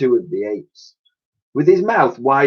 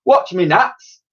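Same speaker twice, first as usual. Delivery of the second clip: mild mock yell; 7 semitones higher, 4 dB louder, slower than usual. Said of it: "yelled another".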